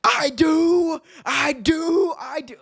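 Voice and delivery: high-pitched, over-the-top wrestler cry; imitating a peak-era wrestling promo; old-school wrestling promo. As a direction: belt it out like a ranting wrestling heel. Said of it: "Ric Flair at his peak".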